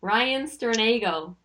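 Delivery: slow, careful American accent. Shown as a demonstration. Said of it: "give it my best go with an American accent".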